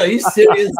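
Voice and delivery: high, loud disbelieving yelp; incredulous shout. Retold or imitated. Host retelling his reaction to the buyer's trick, loud stunned yelp. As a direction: blurt it out in shocked disbelief. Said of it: "I was like".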